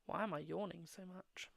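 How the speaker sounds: soft whisper to herself; whispered aside. Real, not acted. Streamer wondering about her yawning, whispered to herself. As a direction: whisper it to yourself, puzzled.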